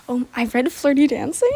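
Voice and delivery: sudden loud burst; too loud. Real, not acted. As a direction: say the title a bit too loud, then catch yourself. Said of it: "Sorry, that was really loud".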